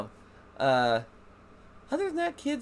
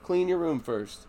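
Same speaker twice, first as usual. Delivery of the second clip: slow sly catch; 6 semitones higher, slower than usual. Retold or imitated. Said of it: "And I'd be like".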